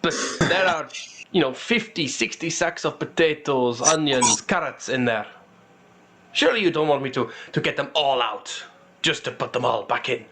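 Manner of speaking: lightly voiced reluctant old dwarf; mild, halting protest from an old merchant; old dwarf pleading. Old dwarf begs not to unload all his sacks, mildly pleading. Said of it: "an old, old dwarf".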